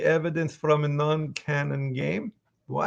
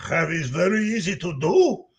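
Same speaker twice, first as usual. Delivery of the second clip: Russian accent seated down in the throat; easy-going Russian big man; Heavy; 4 semitones higher than usual. Shown as a demonstration. Voice actor showing fans Heavy is easy, Russian accent. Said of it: "my voice loves to go down there".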